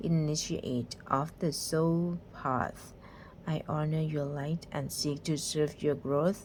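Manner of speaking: slow, hushed reading of a card's message; very slow, soft mystical reading voice; soft oracle reading. Pretend. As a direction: read it like a gentle goddess speaking. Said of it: "ทำไมต้องทำเสียงแบบนั้นด้วยเนาะ เบาๆ".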